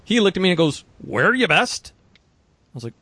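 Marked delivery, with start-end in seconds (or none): 1.0-1.9 higher-pitched mock northern English accent. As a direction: imitate a barely understandable northern England accent. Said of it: "from northern England to a trade show".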